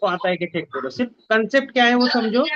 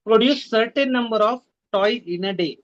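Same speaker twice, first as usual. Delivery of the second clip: slow reading; much slower than usual. Shown as a demonstration. Teacher reads question slowly.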